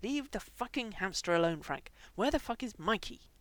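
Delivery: snarling. Acted. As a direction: growl it out, losing patience. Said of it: "finally snarling".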